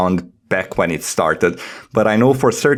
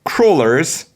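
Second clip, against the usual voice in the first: wondering question rising higher; mock dramatic question; 7 semitones higher than usual. Host reading the guide aloud, puzzled mock question. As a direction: ask it like a dawning mystery. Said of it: "now we are going to do dramatic reading".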